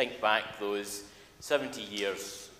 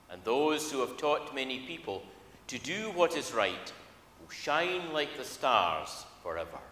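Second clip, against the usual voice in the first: measured, solemn reading from the pulpit; scripture reading. Acted. Minister reading the call to worship to the congregation, solemn scripture reading. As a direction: read it out as the word of God to the congregation. Minister reads Daniel at service.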